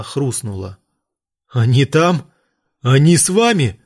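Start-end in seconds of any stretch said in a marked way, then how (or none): 1.5-3.8 louder, barely held-back growl. A narrator's reading. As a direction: growl it, holding back the rage. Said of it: "прорычал он, еле сдерживаясь".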